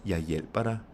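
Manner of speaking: "hjælper" stressed, "Jeg" and "dig" unstressed; weight only the verb "hjælper", keep "Jeg" and "dig" light. Shown as a demonstration. Teacher showing unstressed pronouns, stress only on "hjælper". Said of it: "you do have the stress on the verb".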